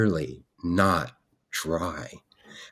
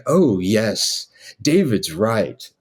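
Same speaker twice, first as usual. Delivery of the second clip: slow, mock-wise agreement; imitated master printer; slower than usual. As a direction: agree slowly, as the printer echoing his master. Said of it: "he had that same rotation thing".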